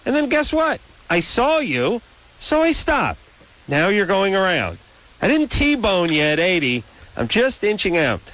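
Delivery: high-pitched, exasperated mock rant; huffy imitation of an annoyed driver yelling at a passing car; mock outraged rant. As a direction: squeal it out like you're fed up with the idiot driver. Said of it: "and you're like".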